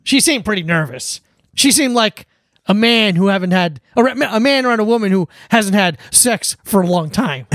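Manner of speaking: lightly voiced smug TV host; deadpan the joke like a smug late-night host; Gutfeld impression. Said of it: "deliver it like he did".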